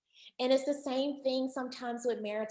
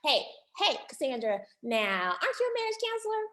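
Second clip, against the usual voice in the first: mock challenge, pitched up on the question; lightly voiced audience heckle; teasing audience member; 4 semitones higher, faster than usual. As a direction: play a sceptic poking at the counselor. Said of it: "you may say".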